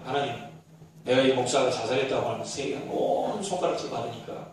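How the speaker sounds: weary resigned prayer. Retold or imitated. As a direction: pray like a man who has given up. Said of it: "그 목사님 말 그 본세를 보세요". (지친 체념의 기도)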